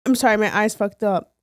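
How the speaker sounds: ordinary talk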